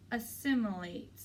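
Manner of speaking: "Assimilate" said slowly and deliberately in a careful American way. A narrator's reading. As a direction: swirl the tongue slowly round each sound of "Assimilate". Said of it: "slowly swirling my tongue around the words".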